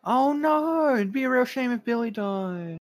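high, drawn-out mock dismay; mock lament. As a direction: start very high and slide down in fake concern. Mock lament over character's peril.

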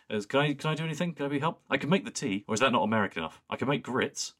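high, fast, simpering offer; high camp Master voice. Retold or imitated. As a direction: play the Master fawning over the President. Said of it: "he goes".

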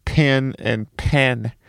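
slow "pin and pen" said alike; pin-pen merger. Shown as a demonstration. Showing how people heard his pin and pen. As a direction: drag out "pin and pen" with one vowel. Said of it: "people couldn't distinguish when I'd say".

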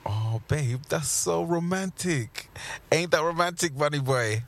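slow, soft swooning. Acted. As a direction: melt at the words, teasing. Swooning over threat.

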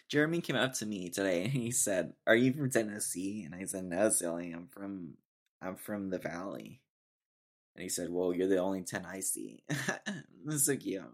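lightly mocking Valley Girl telling a story; Valley Girl accent. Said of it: "That's why I talk like this".

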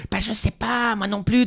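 high, lightly voiced baffled friend; clueless friends. Friends calling back, high and baffled. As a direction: toss it off, equally lost.

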